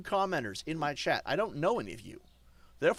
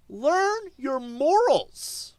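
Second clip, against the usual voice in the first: loud, higher, dragged out word by word; slow angry shout; 9 semitones higher, 6 dB louder, much slower than usual. Real, not acted. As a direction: lecture them, each word hammered. Scolding his chat.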